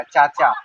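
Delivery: चाचा loud, with two long open "aa" vowels; both vowels wide open. Shown as a demonstration. Teacher demonstrating aa in both syllables, wide open. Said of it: "दोनों पे बड़ा ही मुंह खुलेगा".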